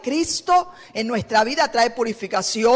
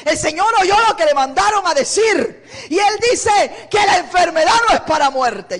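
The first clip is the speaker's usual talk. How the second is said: joyful messenger; 6 semitones higher than usual. Retold or imitated. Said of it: "Le dijo".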